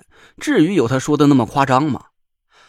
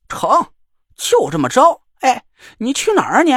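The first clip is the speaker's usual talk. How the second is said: higher, louder cocky challenge; sly dare; 7 semitones higher, 4 dB louder than usual. A narrator's reading. Joker daring the girl to enter: sly, cocky. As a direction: goad her into the tent. Joker calling after her.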